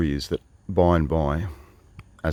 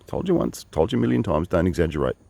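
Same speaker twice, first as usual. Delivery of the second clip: mock scolding; 3 semitones higher than usual. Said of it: "something that he's probably said a million times".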